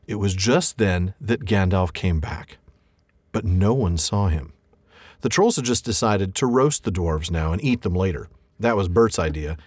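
storyteller reading aloud; story narration. A narrator's reading. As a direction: read it like a bedtime story. Reads The Hobbit passage.

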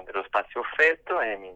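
ordinary talk, nothing marked

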